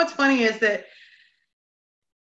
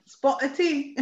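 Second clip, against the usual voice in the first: 1 mock posh English; 2 semitones higher, 3 dB quieter, slower than usual. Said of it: "your rendition of an English person is like someone from London and really posh".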